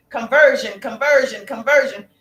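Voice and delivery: loud, falling chant of one word; calling out the keyword. Acted. Coach to live viewers, calling out the DM keyword loudly. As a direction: drive the keyword home, each one punched.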